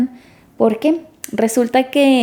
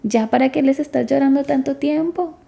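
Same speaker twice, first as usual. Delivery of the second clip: higher-pitched mild scolding of a mourner; reproachful relative; 3 semitones higher than usual. Acted. Relatives telling a mourner to stop crying, mild reproach. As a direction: voice a relative impatiently discouraging tears.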